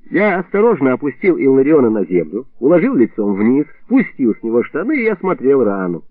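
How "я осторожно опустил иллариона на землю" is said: plain reading voice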